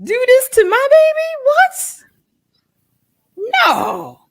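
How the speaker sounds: mock pleading with God. Mother reenacting her anguished prayer to God, high and exasperated. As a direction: play her younger self demanding answers from God. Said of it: "went through that".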